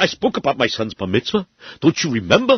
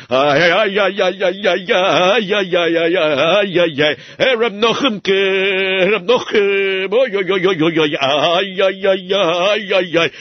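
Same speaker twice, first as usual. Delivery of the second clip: imitating the shamash; much slower than usual. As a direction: mimic his fretful sighing and dithering. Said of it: "I even remember how you did it".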